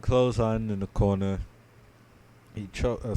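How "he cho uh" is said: words broken by a yawn. Real, not acted. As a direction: talk through a yawn. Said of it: "sorry, I'm yawning".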